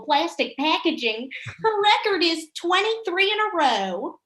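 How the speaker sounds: high, bright pageant host voice; introducing a little contestant onstage; pageant announcer. Retold or imitated. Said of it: "whatever lady was introducing me".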